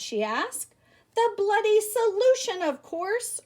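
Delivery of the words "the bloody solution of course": loud, high proud announcement; hammed-up eureka triumph; triumphant reply. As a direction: crow the answer. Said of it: "Earl replied".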